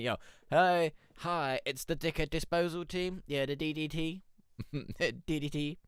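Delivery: hammed-up promo voice; mock team intro. Introducing the Dickhead Disposal team as a mock announcer.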